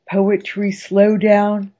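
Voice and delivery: slow announcer read; drawn-out title call; show slogan. Acted. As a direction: stretch it out like a sign-off.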